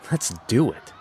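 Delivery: a bold battle cry; rallying shout. Acted. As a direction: shout it to fire up the team. Rallying the team to act.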